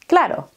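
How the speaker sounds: quick claro with a D-like R; fast Spanish claro, R almost a D. Shown as a demonstration. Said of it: "Cuando la decimos rápido".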